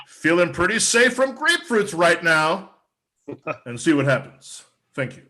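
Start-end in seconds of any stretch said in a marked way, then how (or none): 0.1-2.7 higher, half-raised demonstration yell; mock yell. Comic showing customers how to subscribe, mild mock yell. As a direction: call it out as if outdoors, held back. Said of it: "Simply go outside and yell".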